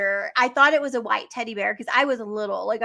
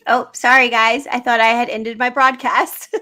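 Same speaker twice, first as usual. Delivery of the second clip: caught off guard; 8 dB louder than usual. Real, not acted. Caught still live, apologizing.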